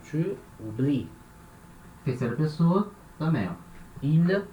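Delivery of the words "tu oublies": slow, soft "Tu oublies" ending on I; silent ES ending. Shown as a demonstration. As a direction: stop "oublies" at the I, no S. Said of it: "não aparece o som".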